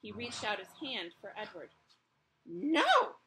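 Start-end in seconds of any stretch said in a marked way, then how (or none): 2.4-3.2 loud, high, sharp refusal. Acted. Mother stopping her child, loud and sharp. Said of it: "said the mother".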